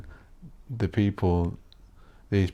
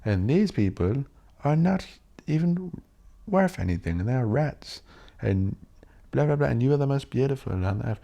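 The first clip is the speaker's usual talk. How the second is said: higher, mock-grand ranting Hitler; 5 semitones higher than usual. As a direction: ham up a demagogue telling the crowd they're chosen. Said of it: "Hitler was like".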